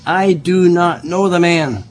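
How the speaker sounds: slow, forceful, mildly heated denial; cursing denial. Retold or imitated. Preacher voicing Peter's sworn denial, mock heated. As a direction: spit each word out like a curse, lightly acted. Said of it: "he began to curse and swear".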